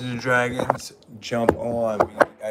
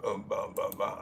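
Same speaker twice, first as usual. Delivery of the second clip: burping; 8 semitones lower, 9 dB quieter than usual. Shown as a demonstration. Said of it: "Check it out as I burp".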